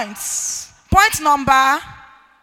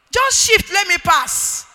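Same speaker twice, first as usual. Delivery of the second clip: curt, higher demand; 4 semitones higher, 3 dB louder, slower than usual. Retold or imitated. Husband asking wife to move, heard as curt. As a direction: snap it out high, a touch louder. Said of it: "Is the gap not too far?".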